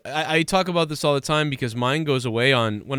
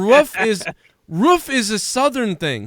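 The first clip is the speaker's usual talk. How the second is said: insistent; 5 semitones higher, slower than usual. Real, not acted. Insisting roof is Southern.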